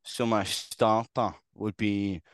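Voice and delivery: slow, put-on Scottish; effortful Scottish impression; Scottish accent. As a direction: labour through a mock Scottish accent. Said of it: "such a hard word to say in Scottish".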